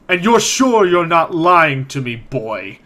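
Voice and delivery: forceful challenge, dropping on the last word; glaring intimidation. Acted. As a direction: lean on them to get the truth. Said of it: "he glares at you".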